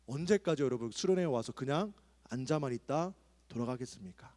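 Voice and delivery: usual speaking voice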